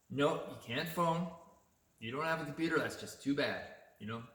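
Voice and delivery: lightly voiced clerk telling him tough luck; curt store clerk. Clerk turning away a customer without a computer, mildly mocking. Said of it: "she said it in that way".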